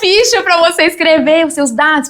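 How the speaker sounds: brisk, insistent correction of the pastor; pastor's instruction. Retold or imitated. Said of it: "a pastora Alcione me pegou pelo braço".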